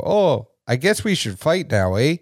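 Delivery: mock a Canadian hockey player, casual and offhand; bad Canadian accent. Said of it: "forgive me for my terrible Canadian accent".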